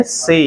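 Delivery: "से" with one short plain vowel. Shown as a demonstration. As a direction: say "से" as a single unglided vowel. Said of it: "जैसे हम बोलते हैं से".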